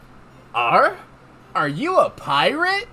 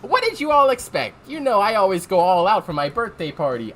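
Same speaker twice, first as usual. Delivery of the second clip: Amy voice. Acted. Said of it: "I wish I could do an Amy voice".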